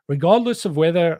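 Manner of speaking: put-on failed stab at a British accent; a half-hearted British accent, dropped at once; attempted British accent. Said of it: "I was gonna try and do a British accent. I can't do it".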